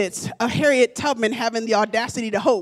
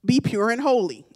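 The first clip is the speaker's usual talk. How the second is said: pastor's voice; 5 semitones lower, 4 dB quieter than usual. Retold or imitated. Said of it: "the voice of your pastor saying".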